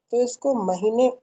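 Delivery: महीने said with a clear n sound at the end; pronounce with half n. Shown as a demonstration. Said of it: "मही में नहीं पढ़ेंगे".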